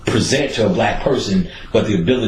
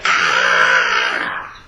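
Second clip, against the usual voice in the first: mock yell; 11 semitones lower than usual. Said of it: "people start yelling".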